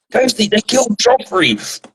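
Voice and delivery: mock a smashed, half-asleep friend's indignation; imitated angry drunk mate. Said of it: "he was getting so angry".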